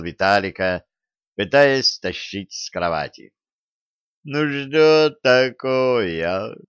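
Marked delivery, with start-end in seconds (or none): 4.2-6.6 slow, drawn-out whine; whining. Acted. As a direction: whine it half asleep. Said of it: "заныл царский сплетник".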